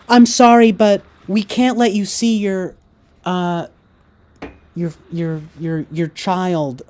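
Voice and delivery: nurse's fake sorry, mocked high and loud; mock hospital staff. Mocking hospital staff refusal.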